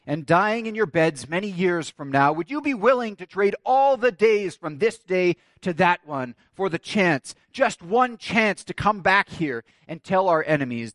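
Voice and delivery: impassioned rallying oratory; William Wallace. Acted. Wallace challenges his countrymen before battle, rousing speech. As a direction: build the challenge in emphatic, drawn-out phrases. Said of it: "To which Wallace challenges".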